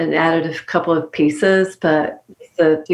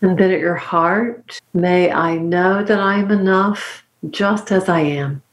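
guided mantra. Acted. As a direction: lead the listener through a calm blessing. Leads a closing mantra.

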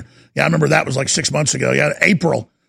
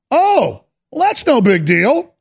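sarcastic; 5 semitones higher, slower than usual. Acted. Sarcastic reaction to cancer headline.

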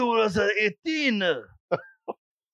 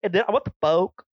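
mock Asian accent. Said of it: "why does everyone say that they talk like that".

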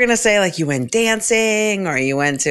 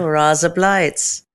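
slow, drawn-out Aussie vowels; Australian accent; much slower than usual. Pretend. Co-host showing off her one Australian phrase, Australian accent. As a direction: put on an Aussie accent, drawing it out. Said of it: "Australian accent".

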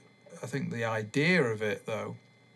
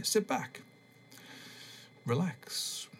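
relaxation voice, less put-on; 7 semitones higher, slower than usual. Podcaster retries the tape intro in his own soothing voice. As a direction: guide them to relax without disguising your own voice. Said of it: "don't need to change my voice".

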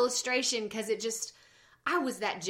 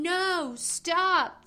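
higher-pitched imitation of a screaming toddler; mock child's scream; 7 semitones higher, 4 dB louder than usual. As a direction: imitate a kid's protest, pitched up, not full volume. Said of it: "he's screaming".

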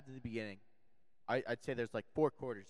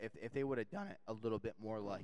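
voice cracking; 3 dB quieter than usual. Real, not acted. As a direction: voice breaks mid-sentence. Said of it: "Your voice just cracked".

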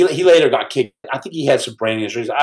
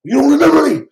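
mock surprise; 12 semitones higher, 4 dB louder than usual. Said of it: "he's like".

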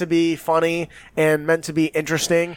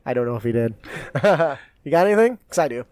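ordinary talk

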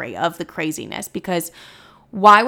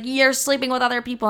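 high, fast imitated retort; quick, pitched-up retold accusation; mock screaming accusation; 5 semitones higher, faster than usual. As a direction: imitate an indignant boyfriend hitting back. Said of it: "we're both screaming in the hallway".

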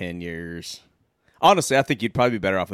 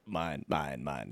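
calling dibs; 6 semitones lower, 14 dB quieter, much slower than usual. Retold or imitated. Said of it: "both were calling dibs".

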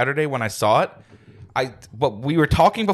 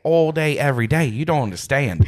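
light put-on Aussie accent; Australian accent. Shown as a demonstration. Co-host bragging about D and D campaigns, Australian accent. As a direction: keep up the easy Australian. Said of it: "campaigns with Australian accents".

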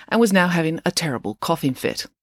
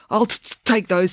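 flustered stutter; stammering; 4 semitones higher than usual. Acted. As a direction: stammer on t-, t-, take. Joe stammers.

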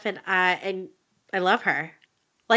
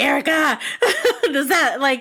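laughing; 4 semitones higher than usual. Retold or imitated. Nervously asking friend.

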